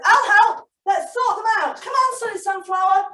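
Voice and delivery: put-on chirpy puppet boy offering help; Marvin puppet voice.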